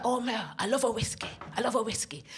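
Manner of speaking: put-on lightly done Scottish accent; George. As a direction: confess a fondness in a Scottish lilt. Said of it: "this is how George sounded".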